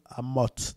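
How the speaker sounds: Amote with a sounded final T; biblical pronunciation. Shown as a demonstration. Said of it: "d'ailleurs, il se prononce bien". (Amote prononcé à la manière biblique)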